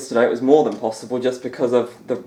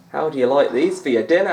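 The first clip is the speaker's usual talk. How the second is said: slightly louder Scottish commentator catchphrase; McManus catchphrase impression; 4 semitones higher, 4 dB louder than usual. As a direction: toss off the line in a faint Scottish lilt. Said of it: "Alan McManus?".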